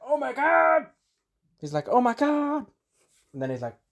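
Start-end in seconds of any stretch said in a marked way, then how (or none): 0.0-0.9 very high hammed-up wail; mock horrified cry. Vampire acted being cut in half. 1.9-2.7 high-pitched hammed-up death cry; mock horrified wail. Vampire acted being cut in half.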